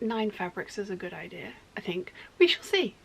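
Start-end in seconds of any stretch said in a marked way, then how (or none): 1.8-2.1 a quick soft whisper of doubt; whispered afterthought. Real, not acted. 2.4-2.9 high, louder teasing lilt; playful sing-song. Real, not acted. Playful sign-off to doubt.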